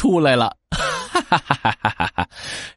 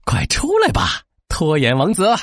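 calling out. Acted. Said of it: "一边走一边大喊".

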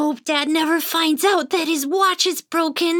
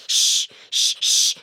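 shush. Acted. Hushing the pixie.

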